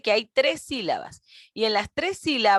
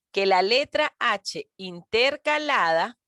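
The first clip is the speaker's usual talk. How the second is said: slow, drawn-out letra H intercalada, stretching letraa; slow emphasis. Shown as a demonstration. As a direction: spell out letra H intercalada slowly for students.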